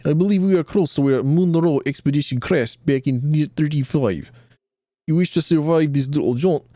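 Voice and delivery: put-on lightly done Russian accent, a touch smug; a hint of Russian accent, knowing scholar; mild Russian-accented guide giving advice. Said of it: "giving him the Russian accent".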